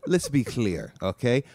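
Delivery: put-on accent of a singer. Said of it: "I do a job of whatever accent".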